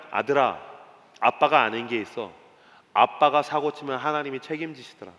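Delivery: low, gentle fatherly telling; fatherly confiding. Acted. Abraham telling his son what he has learned, low and confiding.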